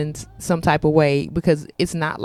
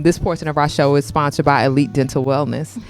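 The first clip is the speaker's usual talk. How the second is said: polished sponsor announcement voice; sponsor ad read. Acted. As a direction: sell the dental practice like a radio spot.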